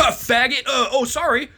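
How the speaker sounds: mocking heckler. Retold harasser taking headphones off.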